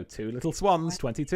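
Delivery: sing-song bingo number call; bingo caller. Pretend. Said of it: "probably tell I am, uh, I'm using bingo calling software".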